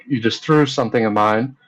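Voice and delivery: loud, heated retelling, nearly yelling; reliving the fury at full volume; furious shout. Retold or imitated. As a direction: shout it as if the anger is back. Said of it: "I'm getting pretty furious".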